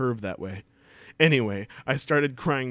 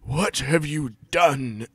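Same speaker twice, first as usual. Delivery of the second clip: slow dramatic redo; 4 dB louder, slower than usual. Shown as a demonstration. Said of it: "Oh, hold on, sorry".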